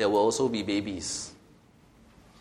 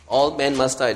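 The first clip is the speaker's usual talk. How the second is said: louder repeat, "All" hit hard; emphatic repeat; 4 dB louder than usual. Shown as a demonstration. Preacher repeating the truth louder for emphasis. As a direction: drive "All" home, full voice. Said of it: "That's the first truth".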